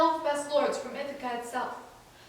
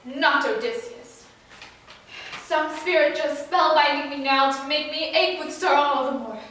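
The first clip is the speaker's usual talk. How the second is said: mildly agitated, disbelieving outburst; wild disbelief; 4 dB louder than usual. Acted. Son rejecting the man claiming to be his father, disbelieving. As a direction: refuse to believe it, with bursts of force. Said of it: "Telemachus broke out, wild with disbelief".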